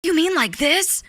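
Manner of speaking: high, cartoonish boy-hero impression; Deku. Streamer answering chat's tease, Deku impression. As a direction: pitch up into an anime boy voice. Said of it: "would sound like those cursed Deku Insta".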